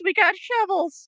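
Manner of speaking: high, eager shout of a proud grunt; hammed-up bragging; mock gung-ho soldier. Players mock soldiers flaunting shovels.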